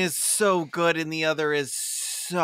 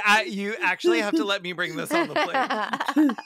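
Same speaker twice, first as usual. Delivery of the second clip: mock-indignant passenger. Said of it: "I'm like".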